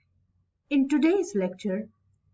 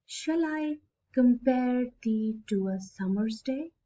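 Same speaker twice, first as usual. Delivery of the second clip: reading a verse line. Shown as a demonstration. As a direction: read the line out with care, evenly. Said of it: "let me read this line for you".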